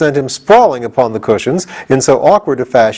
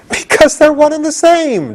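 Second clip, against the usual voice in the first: laughing merrily. A narrator's reading. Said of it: "now laughing merrily".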